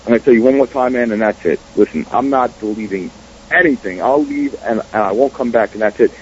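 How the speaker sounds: really calm. Retold or imitated. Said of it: "I was, like, really calm too".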